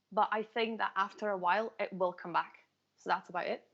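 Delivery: lightly lilting Scottish accent. Shown as a demonstration. Asked to do a Scottish accent, obliges in Scottish. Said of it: "Can you do a Scottish accent".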